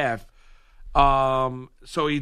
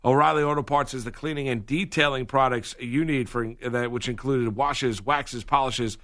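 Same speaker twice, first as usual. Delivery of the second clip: even, practised sponsor read; radio ad read; 2 semitones lower than usual. Acted. Reads sponsor advertisement.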